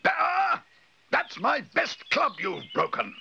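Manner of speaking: high, loud cry of outrage, then drawn out; furious high-pitched scolding; outraged yell. A narrator's reading. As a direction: explode at the culprit, stretching every word. Mister Curry finds broken club.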